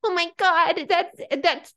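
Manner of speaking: high, mock-thrilled gossip; mock excited gasp. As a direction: gasp like breaking news. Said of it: "we're all like".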